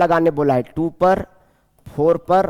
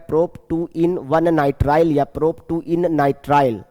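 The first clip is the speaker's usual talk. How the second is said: slow dictation; much slower than usual. Shown as a demonstration. Teacher dictating the final name.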